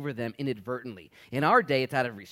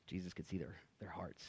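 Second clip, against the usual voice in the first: hushed; 6 semitones lower, 14 dB quieter than usual. Real, not acted. Hushed point in sermon.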